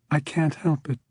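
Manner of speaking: tearful and sobbing. A narrator's reading. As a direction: say it through sobs. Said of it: "began to sob".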